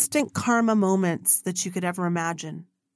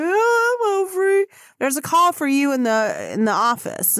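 put-on much higher, bright young girl voice; chirpy little girl; 6 semitones higher, 4 dB louder than usual. Little Becky running up to Oprah on the track, high girlish voice. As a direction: pipe it up like a little kid. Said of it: "she's like".

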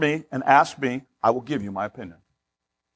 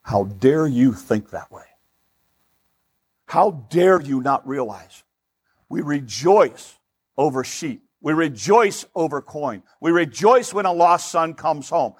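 slow, weighty reproach; Jesus' stern rebuke; slower than usual. Acted. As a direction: rebuke the proud, measuring out every word. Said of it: "Jesus zeroes in".

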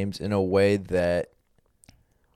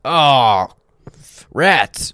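put-on wholesome 1950s kid; 3 semitones higher, 7 dB louder than usual. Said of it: "That's how Mormons play".

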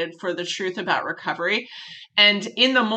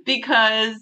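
light laughter breaking into the words; half laughing, half moved by his story; laughing through tears; 2 semitones higher than usual. Real, not acted. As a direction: laugh while admitting you cried.

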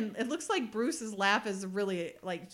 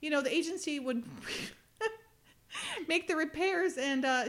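halting plea in a higher pitch; imitated stuttering; 6 semitones higher than usual. Woman hoping the agency covers repairs, imitated stammering. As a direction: stumble through the request, mimicking her. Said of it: "she's all stuttering".

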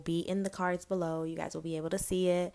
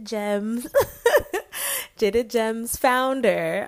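laughing through the name, drawn out; 5 semitones higher, 9 dB louder, much slower than usual. Real, not acted. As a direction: giggle while you say it. Laughing over guest's name.

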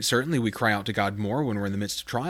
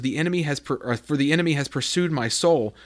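slow, heavy reading of the lament; lamenting psalm; slower than usual. Acted. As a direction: let the words weigh down. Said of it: "backing up a few verses".

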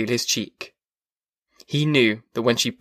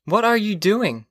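higher-pitched voice for the wife; wife questioning her husband, pitched up; 9 semitones higher than usual. A narrator's reading. Wife asks her silent husband what he's doing, high voice. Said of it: "His wife said".

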